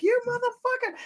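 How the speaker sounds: squeaky, hammed-up furious sister; imitating sister. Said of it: "she's like".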